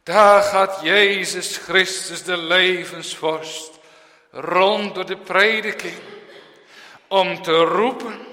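loud, high, slow pulpit proclamation; Paul preaching. Retold or imitated. Paul telling the dead in their graves, loud proclamation. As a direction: proclaim it as the apostle. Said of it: "dan zegt Paulus".

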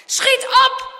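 high, very loud hurry-up; sharp, forceful command; urgent shout. A narrator's reading. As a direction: yell at him to move. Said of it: "schreeuwt Harm weer".

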